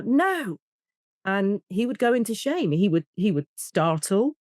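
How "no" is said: retold yell. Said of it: "I'd yell".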